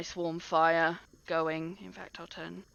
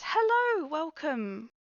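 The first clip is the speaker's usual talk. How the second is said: halfling innkeeper; 5 semitones higher than usual. Acted. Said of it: "she looks at you all and goes".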